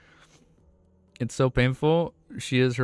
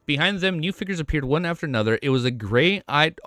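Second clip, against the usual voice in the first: steady, projected read-aloud voice; audiobook-style reading; story narration; 3 semitones higher than usual. A narrator's reading. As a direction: narrate the novel clearly and evenly. Reads the novel aloud.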